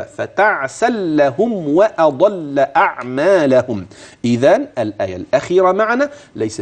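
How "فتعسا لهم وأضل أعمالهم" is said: recitation, read through. Shown as a demonstration. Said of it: "أما الأصل أن تقرأها هكذا".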